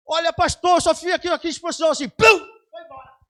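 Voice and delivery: high and loud, ending in a shout; loud, high astonished recounting; excited retelling. Retold or imitated. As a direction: marvel loudly at how easy it was. Woman marvels to pastor.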